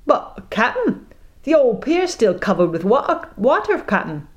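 put-on first mate pleads for girl; timid first mate. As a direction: beg nervously.

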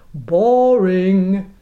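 bored pirate captain; bored drawl. Acted. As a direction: toss it off with a sneer.

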